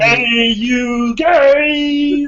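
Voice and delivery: high, slow, drawn-out goofy call; dopey cartoon bellow. Imitating the dumb guy voice.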